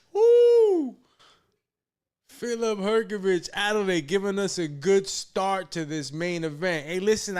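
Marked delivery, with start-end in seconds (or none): 0.1-1.0 high loud laughing woo; excited whoop. Real, not acted. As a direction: whoop with delight. Cheering the fight.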